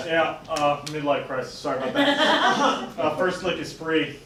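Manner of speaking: put-on Italian accent. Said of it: "I really like your Italian accent".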